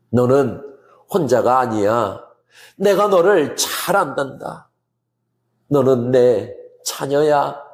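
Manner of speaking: low, unhurried reassurance with pauses between phrases; tender, loving voice. Acted. The Holy Spirit telling a believer they are not alone, tenderly. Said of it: "이 다정한 성령님의 음성에".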